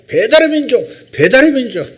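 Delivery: very high, loud repeated slogan; group shout. Retold or imitated. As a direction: chant it back like an excited crowd. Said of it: "우리가 일제히 주목을 주고 외쳤습니다".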